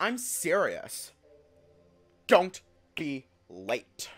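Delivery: camp voice, very slow, each word drawn out. Narrator voicing the character Maruk, in Maruk's more gay voice. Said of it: "giving him a more gay voice".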